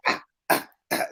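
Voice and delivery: imitating song ad-libs. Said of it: "you got niggas say".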